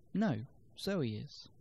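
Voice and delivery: "Zoe" stressed after a separate, slow "No"; correcting stress. Shown as a demonstration. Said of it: "can place the stress on different words".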